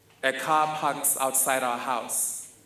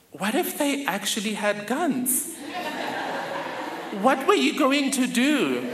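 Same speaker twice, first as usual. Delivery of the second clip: laughing question; 7 semitones higher than usual. Retold or imitated. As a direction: ask it incredulous, laughing. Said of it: "My cousins and I say to her".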